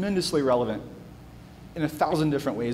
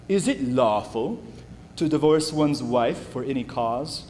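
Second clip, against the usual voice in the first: put-on slow, made-up Pharisee accent on the question; a lightly put-on Pharisee accent, drawn out. Pastor voicing the Pharisees testing Jesus, a mock Pharisee accent. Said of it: "It's the Pharisee accent".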